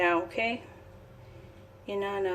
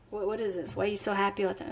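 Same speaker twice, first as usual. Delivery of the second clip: mock skeptic; 7 dB quieter, much faster than usual. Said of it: "when people question you".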